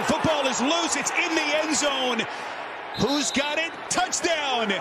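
touchdown call. Real, not acted.

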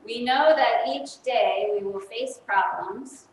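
slow, measured prayer leading for a group to repeat; slow call-and-response prayer voice. Acted. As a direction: lay out each line slowly so the children can echo it.

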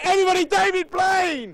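high, drawn-out shouted introduction; announcing shout. Real, not acted. Reporter presenting David Blaine lookalike to the crowd, announcing shout. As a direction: shout the name slowly to rouse a crowd.

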